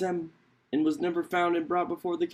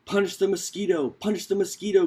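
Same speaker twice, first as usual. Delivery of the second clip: crying out; 4 semitones higher than usual. Acted. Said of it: "cried all the animals".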